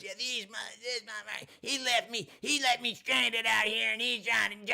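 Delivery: high whiny phone voice; mocking her on the phone. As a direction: imitate her complaining to friends. Voicing her phone complaint.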